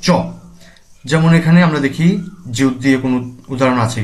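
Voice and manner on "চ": চ as a short tense ch; isolated demonstration of চ; ch sound. Shown as a demonstration. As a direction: say চ alone, crisp, not j. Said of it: "জিউটটি হবে চ এর মতো".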